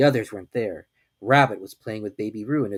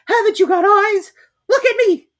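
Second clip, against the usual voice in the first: shouting; 11 dB louder than usual. A narrator's reading. Piglet shouting at Kanga to look at him. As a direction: shout in exasperation. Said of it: "shouted Piglet".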